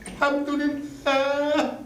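choked-up thanks. Acted. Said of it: "انت بتعيط يا بابا؟".

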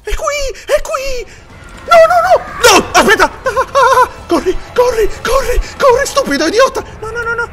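shrieking high and loud in terror; real terror, piercing high yells; panicked screaming. Real, not acted. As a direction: scream for your life as it chases you. Monster catches him, panic.

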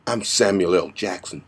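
low, soft, threatening name-drop; quiet menace. Shown as a demonstration. Vigilante introducing himself to a hoodlum, quiet menace. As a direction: state the name softly as a threat. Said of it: "And of course there's".

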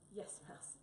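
a soft, airy sigh of a reply. Acted. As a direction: sigh it out, weary of explaining. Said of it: "sighed Tabby".

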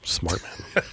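hushed dry whisper; whispered aside. Real, not acted. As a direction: murmur the compliment under your breath. Teasing guest about coffee.

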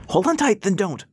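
calling out. A narrator's reading. Dixie to Rass hanging from the skiff, calling out. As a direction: call it up high to someone hanging on. Pilot calls to dangling passenger.

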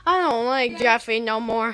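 whining through tears; crying whine. Acted. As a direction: sob it out like a kid. Crying complaint.

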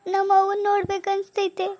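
homesick, tearful plaint. Acted. New bride tells husband she misses her mother, tearfully. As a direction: say it as if holding back tears. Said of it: "ಯಾಕೆ ಏನಾಯ್ತು ಅಳ್ತಿದ್ದೀರಲ್ಲ?".

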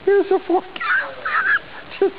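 forecast through bursts of giggles; trying not to laugh. Real, not acted. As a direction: keep reading despite laughter. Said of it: "I gotta get through this".

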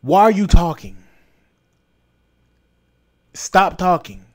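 loud, scornful challenge; angry demand. Real, not acted. Telling the actress to stop talking, loud and angry. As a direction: shut her down, loudly.

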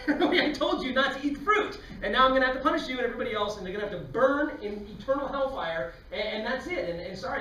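wrathful God. Acted. God sentences Eve for eating fruit, mock-wrathful shout. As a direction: thunder out the punishment, hammed-up.

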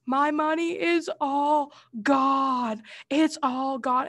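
slow, drawn-out mock sobbing words; imitating bawling. Retelling to her mom at night, slow mock sobbing. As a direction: wail it like a kid who lost everything. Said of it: "just bawling".

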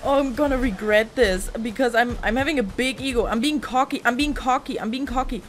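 loud, insistent babbling in mock panic; panicked self-scolding. Real, not acted. Player regrets being cocky mid-fight, panicked self-scolding. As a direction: cry out in rising alarm at yourself.

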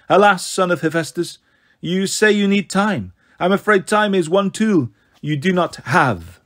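lightly voiced cold goddess, mock regret; a hint of an icy villainess; frosty snow goddess. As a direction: deliver bad news as a cool goddess.

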